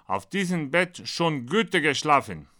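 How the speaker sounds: mildly proud boast, a little lifted; proud announcement. Acted. Hotel landlord shows an American the guest room, mildly proud. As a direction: show off the bed with some pride. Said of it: "Hotelwirt zeigt Amerikaner Gastzimmer und sagt stolz".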